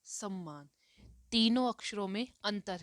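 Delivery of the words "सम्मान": सम्मान with a doubled m, sam-maan; teacher modelling सम्मान; slow clear demo. Shown as a demonstration. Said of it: "जैसे कि".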